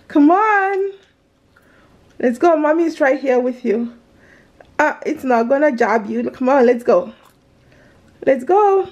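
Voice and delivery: gentle coaxing, mommy's here. Real, not acted. Mother coaxing scared daughter.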